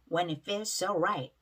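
"feels so" joined with just one S; merged S sound. Shown as a demonstration. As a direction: model "feels so right" with the double S said once. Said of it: "한 번으로 발음 나죠". ("feels so"의 에스 두 개를 한 번으로 이어서 발음)

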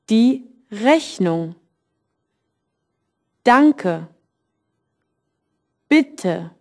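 die Rechnung, danke, bitte with strong first syllables; each word said with the first syllable clearly stressed. Shown as a demonstration. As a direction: lean on the first syllable and let the ending fade. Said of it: "you stress the first syllable".

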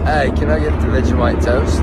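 imitated Australian accent. Shown as a demonstration. Student imitating the teacher's Australian accent. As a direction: repeat the Aussie line back to the teacher. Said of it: "That's pretty good".

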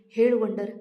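loud barked demand; angry shout. Acted. Brother furiously shouts at his sister for an answer.

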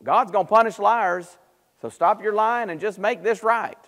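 high, emphatic mock admonishment; acted reproachful lecture; stern warning. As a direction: warn him like a scolding friend. Friends rebuke Job as a liar.

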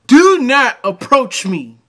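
high, loud, slow shriek; screaming parody. Acted. Man mocking the parking lot video, slow high scream. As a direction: scream it in over-the-top mockery.

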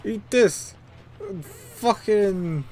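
high, loud battle yell; attacking shout. Acted. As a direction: shout it as you strike. Acted attack in a fight.

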